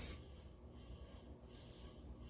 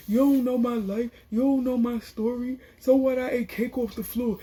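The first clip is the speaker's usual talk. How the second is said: higher-pitched mock indignation; defensive retort; 5 semitones higher than usual. Cousin answering Medina in the cake argument, defensive. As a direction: throw it back, imitating a heated comeback.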